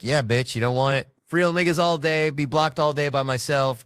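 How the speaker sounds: loud, high gloating yell; hyped trash-talk yell; taunting celebration. Retold or imitated. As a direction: crow over the beaten guy. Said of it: "I was like".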